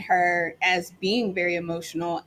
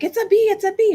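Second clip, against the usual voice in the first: high, loud mock panic; imitating a panicked daughter's alarm; imitated freak-out; 8 dB louder, faster than usual. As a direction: squeal it like a kid freaking out. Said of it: "she just freaks out".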